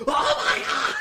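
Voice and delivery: high, loud announcer's shout; screamed wrestling call, laughter close behind; Cody going nuts. Retold or imitated. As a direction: imitate a ringside commentator losing it. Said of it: "Cody went nuts".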